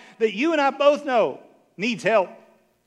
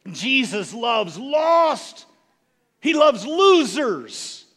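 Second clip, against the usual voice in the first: slow, loud proclamation, each word stretched; slow proclaiming shout; 4 dB louder, much slower than usual. Real, not acted. Preacher proclaiming to congregation that Jesus loves losers, slow shout. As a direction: shout the core message slowly.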